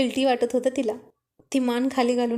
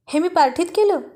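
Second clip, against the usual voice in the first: higher, louder shocked question; stunned disbelief; 6 semitones higher, 5 dB louder than usual. A narrator's reading. Wife hears what she did, shocked and raised. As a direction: gasp it out in disbelief. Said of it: "थक्क होऊन मोठे डोळे करून म्हणाली".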